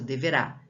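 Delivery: deveRÁ as a whole word, ending on RÁ; stress on final syllable. Shown as a demonstration. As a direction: land Deverá on its last syllable, RÁ. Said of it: "Rá é o mais forte".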